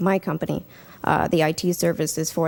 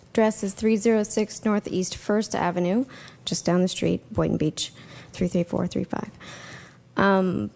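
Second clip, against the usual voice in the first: losing voice. Real, not acted. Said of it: "sorry, I'm losing my voice".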